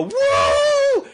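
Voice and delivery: long, very high fangirl woo; mock squealed cheer; imitated cheering whoop. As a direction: whoop like an excited girl in a crowd. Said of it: "cheering, go".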